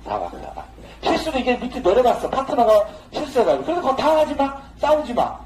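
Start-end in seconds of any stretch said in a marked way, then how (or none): 0.0-0.6 low soft mouth sound. Shown as a demonstration. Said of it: "그러면 또 사박사박".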